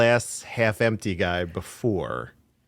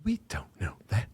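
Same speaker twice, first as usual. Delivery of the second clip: imitated tone; 5 dB quieter than usual. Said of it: "his tone in particular was".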